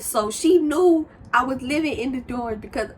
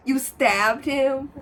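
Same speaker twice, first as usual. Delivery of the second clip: slow and louder, drawn-out shock; stunned disbelief; 4 semitones higher, 5 dB louder, much slower than usual. Retold or imitated. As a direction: stretch it out in disbelief. Reacting to the stabbing story.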